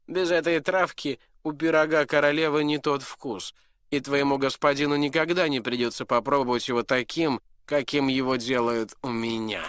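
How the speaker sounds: high, loud knowing prince; smug prince. Acted. Prince to the duke and dwarf, smug and loud. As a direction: lord it over them.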